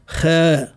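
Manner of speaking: خاء with a light, fronted ae vowel; thinned kha. Shown as a demonstration. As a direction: say خاء thin, the local Tunisian way. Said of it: "ينطق به مرقق".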